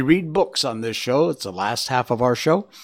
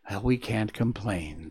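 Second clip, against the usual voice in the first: soft, mild and calm, a touch quieter; gently; 7 dB quieter than usual. A narrator's reading. Leaf gently consoling its friend, soft and calm. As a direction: settle the worry with a kind word. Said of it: "said the first leaf gently".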